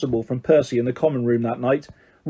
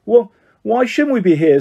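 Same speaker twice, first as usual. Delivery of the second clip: higher, indignant comeback; hot-tempered; 5 semitones higher than usual. A narrator's reading. Ron answering Percy's scolding, hotly. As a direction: retort with mild heat. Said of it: "said Ron hotly".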